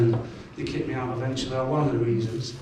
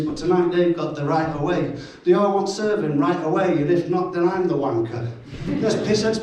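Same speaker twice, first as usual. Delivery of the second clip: rhythmic rhyming poem delivery; poem recital. Acted. Comic reading his barman poem aloud, rhythmic recital. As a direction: perform it like a pub poet.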